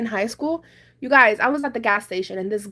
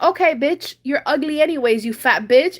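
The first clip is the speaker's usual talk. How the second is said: retold nasty insult, slightly raised; mean, nasty; 4 semitones higher, 4 dB louder than usual. Embarrassed guy insulting the woman who rejected him, nasty. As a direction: imitate a rejected guy lashing out. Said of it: "be mean to me and be nasty to me".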